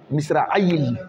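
مصراعي ending in a clear kasra, misraʕi. Shown as a demonstration. Teacher showing students how to read the word, kasra clearly marked. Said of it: "تقرأ بالكسرة".

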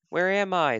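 high, distressed storybook question; lightly acted alarm; lost baby bird. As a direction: ask as a lost little bird.

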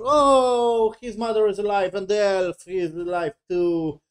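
high, gushing "oh" easing downward; sarcastically moved by a reunion; mock emotion. Reviewer mocking a son's reunion with his mother, mock emotion. Mocks touching reunion, then says doesn't care.

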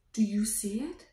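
hushed whisper of discovery. Pretend. Showing a child a hidden fossil, whispered. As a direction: whisper like it's a secret.

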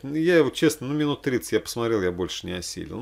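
ordinary talk, nothing marked

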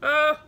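sudden loud "oh" of irritation; loud exasperated "oh". Real, not acted. Vlogger with hair in her eye, exasperated.

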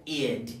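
"id" as its own short syllable. Shown as a demonstration. Teacher showing learners the ending, "id" pronounced clearly. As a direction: say "id" with a clear final d. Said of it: "este se pronuncia".

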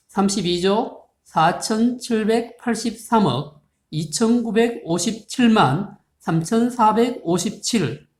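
reads the huge number slowly in one long flow; slow number reading. Shown as a demonstration. Teacher reading a big number to students, slow and careful. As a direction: spell out every digit group carefully and slowly. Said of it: "다시 볼까요?".

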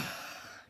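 soft exhaled sigh. Shown as a demonstration. Coach leading the class's breath out, sigh out. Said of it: "and letting out".

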